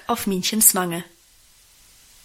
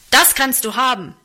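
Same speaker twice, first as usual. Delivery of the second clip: the father about to strike again; in utmost fury; 3 semitones higher, 4 dB louder than usual. Acted. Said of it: "in höchstem Zorn". (in höchstem Zorn, höher)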